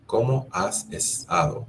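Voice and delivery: friendly asking voice; question tune. Shown as a demonstration. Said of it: "How do you say it?".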